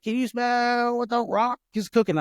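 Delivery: high, drawn-out wrestling catchphrase; The Rock. Retold or imitated. Dad wrestling his daughter on the bed, mock wrestler bravado. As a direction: holler the catchphrase in a hammed-up imitation. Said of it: "I did the Rock's move".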